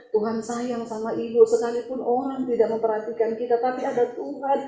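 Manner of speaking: gentle, hushed retold comfort; soft reassurance. Preacher to a weeping woman before praying, gently. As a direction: console her softly and tenderly.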